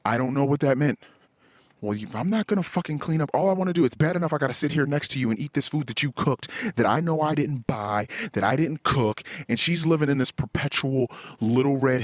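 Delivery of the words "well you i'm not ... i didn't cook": higher, indignant imitation of his wife; mock resentful wife. Husband imagines his wife's resentful inner rant, indignant. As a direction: voice her grumbling back at him.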